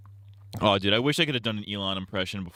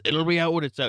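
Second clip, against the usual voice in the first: raised, put-on presidential voice; Trump impression; 6 semitones higher than usual. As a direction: do a mock Trump. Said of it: "doing a Trump impression".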